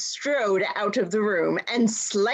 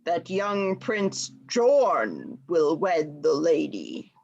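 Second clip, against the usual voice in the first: deep rumbling dwarf; 3 semitones lower than usual. Acted. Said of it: "deep rumble of Quando's voice".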